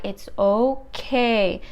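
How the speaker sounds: slow, drawn-out "okay"; reassuring doctor. Retold or imitated. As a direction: imitate a doctor calming a patient. Doctor reassuring the panicking patient.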